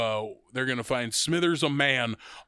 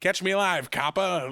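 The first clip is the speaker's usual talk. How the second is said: lightly voiced forties movie gangster, slightly higher; 4 semitones higher than usual. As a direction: toss off a mock gangster line. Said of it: "forties gangsters".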